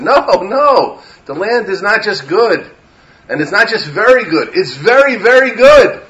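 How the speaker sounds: rising to a loud, high very good; building insistence. Retold or imitated. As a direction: insist harder on each very. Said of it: "As Yeshua and Kalev said".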